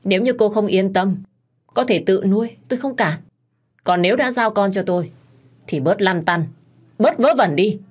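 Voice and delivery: curt, growing impatience; a husband whose patience runs out, ending sharp; người chồng mất kiên nhẫn, gắt dần; losing patience. Acted. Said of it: "Giọng của Khải bắt đầu không còn kiên nhẫn".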